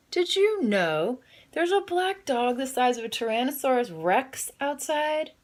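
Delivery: put-on high girlish voice, dragging out Rex; a child's alarmed news, slowing at the end; excited girl. Adeline telling her parents, high and breathless.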